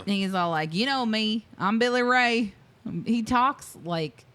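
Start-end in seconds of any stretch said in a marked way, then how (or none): 0.7-2.5 put-on Southern accent. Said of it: "the thickest Southern accent ever".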